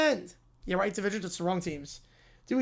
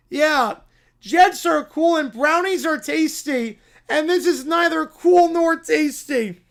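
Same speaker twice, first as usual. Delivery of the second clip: bratty complaint; 3 semitones higher than usual. Acted. Brat complaining.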